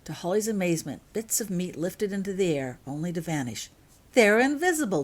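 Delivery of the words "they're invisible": high, louder burst of delight; thrilled at the unseen feeding. A narrator's reading. James shows Holly the Thestrals, delighted. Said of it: "James said with delight".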